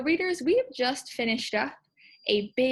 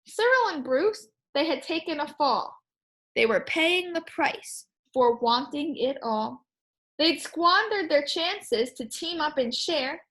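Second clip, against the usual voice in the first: story reading; 3 semitones higher than usual. Acted. Reading picture book aloud.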